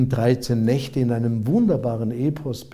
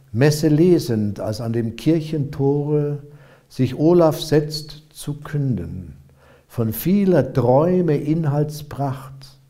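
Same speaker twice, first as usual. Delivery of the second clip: measured verse reading, lines set apart by pauses; declaimed dream song with a falling refrain; solemn epic poem recitation. Acted. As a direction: recite an old ballad, verses swelling, refrain easing down. Reads an epic aloud.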